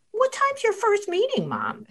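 imitating her son. Son asking innocently in retold story.

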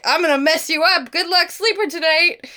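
a moth playfully threatening the sleeper; menacing moth. Pretend. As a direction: tease like a spooky moth. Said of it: "This moth was like".

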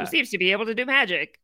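fast, clipped newsreel read; 1920s newscaster voice. Retold or imitated. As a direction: rattle it off like an old radio announcer. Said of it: "in this kind of newscaster voice".

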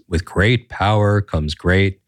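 slow, grand, lightly voiced comic-book legend; a light take on the old comic creator's famous slow proclamation; Stan Lee voice. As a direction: deliver the famous line slowly like a grand old showman. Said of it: "in his iconic voice".

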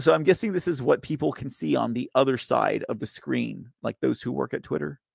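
talking with nose held shut; holding nose. Real, not acted. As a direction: speak while pinching your nose. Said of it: "I'm all holding my nose funny".

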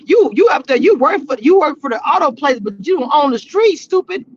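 yelling at another driver; annoyed scolding at the wheel; road rage. Real, not acted. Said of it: "I got a little road rage there".

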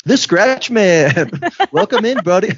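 slow, high host intro; podcast host voice. Pretend. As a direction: welcome them in like a bro podcaster.

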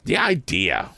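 words through a held-back yawn; stifling a yawn. A narrator's reading. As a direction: say it while swallowing a yawn. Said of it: "checking a yawn".

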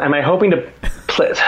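mock-incredulous echo in own accent. Amateur answering the German pro, incredulous echo. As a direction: throw the question back in disbelief. Echoes the German's question back, disbelieving.

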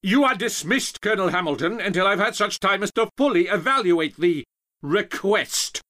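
high, loud pompous dismissal; outraged general at full volume; irate dismissal. Acted. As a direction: throw the officer out with blustering authority. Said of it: "gave Hamilton an "Are you still here?" look".

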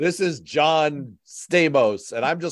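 mock Trump posing as someone else on the phone; Trump's fake alter ego. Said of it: "when he'd pretend to be someone else".

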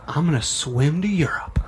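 half-whispered retold declaration; hushed mock vow. Telling friends his big plan, hushed mock vow. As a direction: announce it in a hushed, airy voice.

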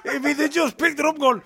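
laughing through the words. Real, not acted. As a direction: talk while laughing. Laughing while telling.

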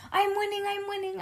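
high, gleeful singsong cheer; excited, high-pitched victory chant; thrilled shout. A narrator's reading. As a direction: cheer it out high as you race ahead. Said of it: "I shouted, very thrilled".

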